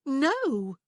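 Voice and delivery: high, loud horrified no; horrified cry. A narrator's reading. Prue to Rowan, horrified at the idea. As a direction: recoil at the thought. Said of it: "she cried, horrified".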